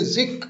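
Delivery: जिक said short and quick; quick unstressed syllable. Shown as a demonstration. Teacher shows students the unstressed syllable, जिक said quickly. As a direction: cut जिक short, no stretched vowel. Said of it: "जिसको हम जल्दी पढ़ रहे हैं".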